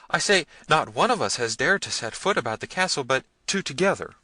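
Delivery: high, flustered explanation; agitated high-pitched underling; trembling, rambling servant. A narrator's reading. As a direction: babble excuses anxiously to the master.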